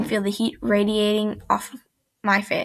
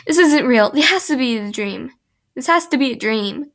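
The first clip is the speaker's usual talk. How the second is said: panicked disbelief; 2 semitones higher than usual. Acted. Narrated panic in fan fiction.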